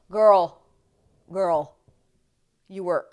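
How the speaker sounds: put-on loud sassy "girl"; cheer. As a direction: hype her up. Cheering her on.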